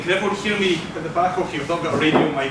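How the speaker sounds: loud projecting classroom voice; teacher voice. Real, not acted. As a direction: project to the back row. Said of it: "My teacher voice is still working".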